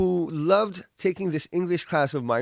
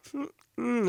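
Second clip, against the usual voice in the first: soft, high questioning hums; dog-like puzzled hum; 6 semitones higher, 7 dB quieter than usual. Retold or imitated. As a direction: imitate a confused dog's little noises. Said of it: "like a dog, you know".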